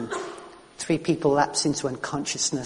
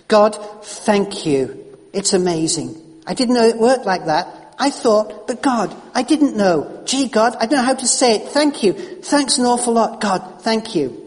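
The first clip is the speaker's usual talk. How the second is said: tearful prayer; 6 semitones higher, 4 dB louder than usual. Retold or imitated. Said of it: "he began both to cry and to pray".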